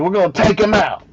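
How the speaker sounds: high-pitched, hammed-up British battle cry; rally the troops in a mock British accent. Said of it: "Why didn't he get a British accent?".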